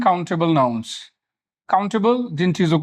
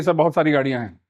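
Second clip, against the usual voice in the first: student's reply; 5 semitones lower, faster than usual. Retold or imitated. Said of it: "बोल देते हैं कि".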